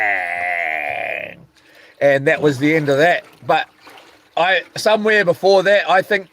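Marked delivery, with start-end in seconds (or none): 0.1-1.5 punch sound effect. Retold or imitated. Imitating the knockout punch.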